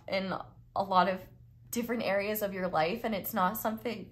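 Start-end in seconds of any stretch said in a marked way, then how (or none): 1.7-4.1 talking through burps; words broken by small burps; burping. Real, not acted. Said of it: "I can't stop burping".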